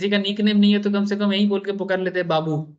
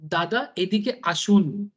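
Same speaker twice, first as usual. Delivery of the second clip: slow, honeyed Bengali "दादा, एदी के आशुन"; sweet Bengali invite; much slower than usual. Retold or imitated. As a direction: coax him in gently, drawing out "एदी के आशुन". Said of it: "कितना प्यार से बोल रहे हैं". (बहुत मिठास से, धीरे-धीरे बंगाली में बुलाना)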